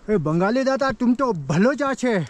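calling out to the Bengali friend teasingly; bengali accent in hindi. Pretend. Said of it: "Bangla बोलना". (ऊँची, धीमी मज़ाकिया बंगाली लहजे वाली हिंदी)

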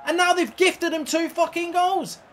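loud, slow, raging yell at the game; furious shout. Real, not acted. Gamer yelling at the game over scripted goals, furious shout. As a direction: bellow in disbelief at the screen.

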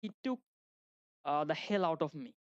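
fully pronounced South Asian English; slow South Asian English, every word complete; South Asian accent. Shown as a demonstration. Teacher showing how we speak English, full South Asian pronunciation. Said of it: "উচ্চারণগুলা সম্পূর্ণ করি".

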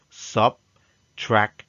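Subtraction slowed, syllables apart; syllable demo. Shown as a demonstration. Teacher showing the syllables of a word. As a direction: break Subtraction into its three syllables. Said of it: "made of three syllables".

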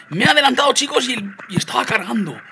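high, loud protest; indignant outburst. Real, not acted. Gamer telling viewers he was overtaken while loading, indignant. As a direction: cry out at the unfairness of it.

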